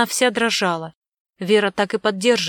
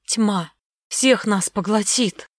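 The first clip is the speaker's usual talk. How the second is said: eerie hoarse croak; slower than usual. Acted. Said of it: "прохрипела жутким голосом".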